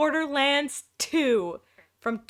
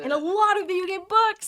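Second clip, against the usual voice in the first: higher, louder amused exclaim; excited exclamation; 8 semitones higher, 6 dB louder than usual. Real, not acted. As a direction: echo it back with delight. Echoing partner's words loudly.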